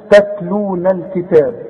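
slow "تتلون الكتاب" with thin, front ta; light letters. Shown as a demonstration. Teacher models recitation for pupil, light letters. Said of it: "لأنها مرققة".

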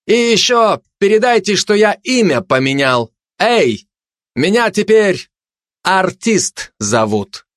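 high, cocky calling out; calling after them. A narrator's reading. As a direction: holler a message after departing people. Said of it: "крикнул вслед спецназу и туристу фашист".

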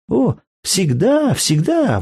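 put-on high, eager little girl's promise; eager child. A narrator's reading. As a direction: squeal it like a child who means it.

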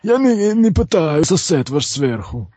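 put-on Ukrainian accent. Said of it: "с украинским акцентом".

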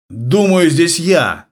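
loud barked retort; barking. Acted. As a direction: bark it at him. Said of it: "рявкнул на него главарь".

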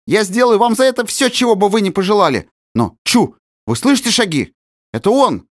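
high, fast eager promise; eager servant. Acted. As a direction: fawn quickly, then hear steps. Nix promising then alarmed. (высоко, быстро, угодливо)

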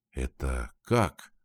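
slow, low puzzled question; slow stunned "what?"; surprised. A narrator's reading. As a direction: drag it out in disbelief. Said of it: "удивился Ренни".

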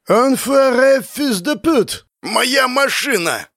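high, drawn-out outraged yell; slow, high-pitched French cursing; furious yelling. A narrator's reading. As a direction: yell in outrage over the wrecked car. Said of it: "орёт он".

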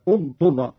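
"اضطر" begun with u, "udturra"; initial damma. Shown as a demonstration. Teacher shows how to begin the word, damma opening "اضطر". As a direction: start "اضطر" on a short u, slowly. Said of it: "والبدء بضم همزة الوصل".

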